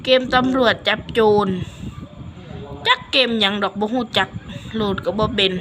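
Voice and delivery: switching into Isan Thai dialect. Shown as a demonstration. Vlogger switching to Isan dialect for the clip. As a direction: chat to viewers in Isan dialect. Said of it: "เดี๋ยวเราจะพูดอีสานในคลิปเลย เริ่ม".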